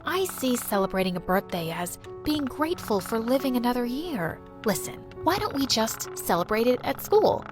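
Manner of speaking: tender mom. Acted. Mother comforting her daughter about her birthday, softly. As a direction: soothe your hurt child.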